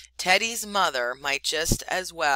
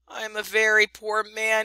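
higher and louder, tearful wail; sobbing; 5 semitones higher, 5 dB louder than usual. A narrator's reading. Chuchundra sobs to Rikki Tikki about his fear, tearful wail. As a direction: wail it through tears. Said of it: "he sobbed".

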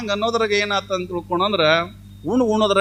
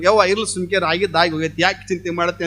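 lower-pitched, imitated soothing; consoling; 5 semitones lower than usual. Neighbours comforting the grieving wife, mildly consoling. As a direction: gently talk the mourner down in a lower voice. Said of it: "ಆಕಿನ ಸಮಾಧಾನ ಮಾಡ್ಕೊಂಡು".

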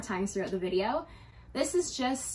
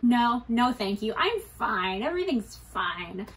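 hurried refusal; slower than usual. Retold or imitated. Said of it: "right away I was like".

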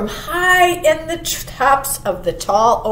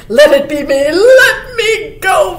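eager fawn; 7 semitones higher, 8 dB louder than usual. A narrator's reading. Fawn volunteering to go, high and pleading. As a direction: beg loudly like a young deer. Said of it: "volunteered the fawn".

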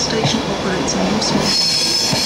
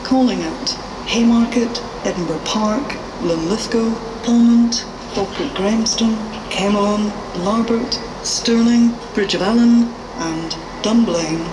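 station loudspeaker. Real, not acted. Station PA announcement.

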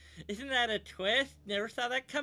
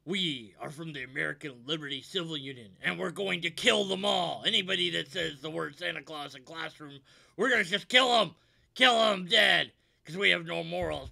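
villain shout; 2 semitones lower, 6 dB louder than usual. Acted. Villain group threatens classroom.

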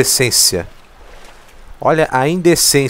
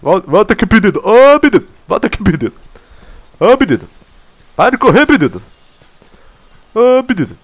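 high, loud calls after it; calling out; 9 semitones higher, 7 dB louder, faster than usual. Real, not acted. Gamer yelling after the monster running away, loud high calling. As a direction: yell for it to come back.

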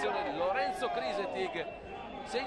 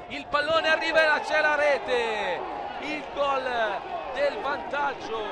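excited goal call, voice rising; live play-by-play; 3 semitones higher than usual. Real, not acted.

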